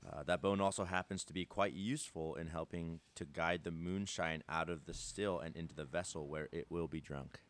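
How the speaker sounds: low, soft article read-out; reading aloud. Real, not acted. Speaker reading friends an article he just found, quiet read-aloud. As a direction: read it out evenly from the page.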